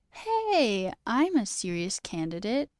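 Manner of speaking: hammed-up eager job applicant; mock interview candidate.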